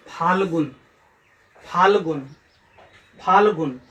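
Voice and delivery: फाल्गुन in clear syllables, फाल-गुन; careful pronunciation. Shown as a demonstration. Teacher drilling फाल्गुन for pupils, careful and clear. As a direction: drill फाल्गुन with a falling end. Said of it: "इन शब्दों को शुद्ध उच्चारण कीजिए".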